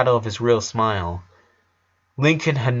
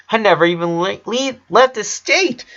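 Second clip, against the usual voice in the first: excited stammer; 10 semitones higher, 3 dB louder than usual. Acted.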